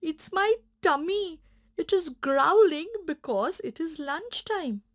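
light, bouncy little puppy; small puppy explaining his tummy. Acted. Puppy realises he is hungry.

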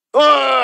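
long, drawn-out mocking "ach"; mock groan. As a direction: groan like a whining complainer. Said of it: "βογάς". (κοροϊδευτικό βογκητό)

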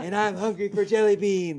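lightly voiced celebrity impression; Ronald Reagan doing Jack Nicholson. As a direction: play an ex-president like a film star. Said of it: "Ronald Reagan doing his Jack Nicholson impression".

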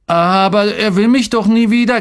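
put-on high, loud wail of a boy; anguished kid's outcry; desperate protest. A narrator's reading. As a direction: plead back in a high, upset voice. Boy protests to angry father.

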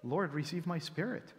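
soft, surrendered plea; quiet trusting prayer. Retold or imitated. Stephen praying while being stoned, soft and trusting. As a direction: give yourself over gently. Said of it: "He actually prays".

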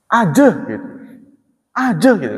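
"Aje" with a falling tune, Betawi-style open e; dialect "aje". Shown as a demonstration. Explaining how people from there say "aje", in dialect. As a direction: say "Aje gitu" as the locals do. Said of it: "ngomongnya begitu".

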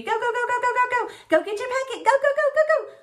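high, eager cheer of go; excited cheering. Real, not acted. Teacher cheering kids to go.

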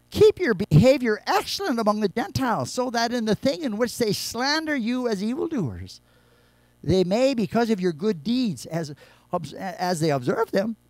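preacher rereading Peter's verse with full force; emphatic reread. Shown as a demonstration. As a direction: hammer the verse home. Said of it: "The world is looking on".

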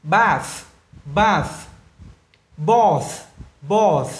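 bath and both ending on voiceless th. Shown as a demonstration. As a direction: punch Bath and Both, finish in a th hiss. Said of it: "lại trở về âm vô thanh". (đọc bath, both với TH vô thanh)

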